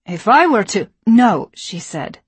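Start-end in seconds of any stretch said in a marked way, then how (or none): 0.1-0.9 loud, annoyed drawl. A narrator's reading. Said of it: "in an annoyed drawl". 1.1-1.5 firm no. A narrator's reading. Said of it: "thinking the better of it".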